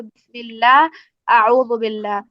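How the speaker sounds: بسم اللہ and اعوذ باللہ with a thin, light lam; example recitation. Shown as a demonstration. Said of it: "میں اس کی ایگزامپل دوں".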